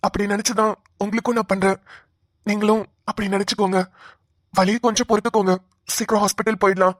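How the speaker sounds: calm, tender comfort; steady her gently through the pain; reassuring. Acted. Brother-in-law comforts woman in labour, reassuring.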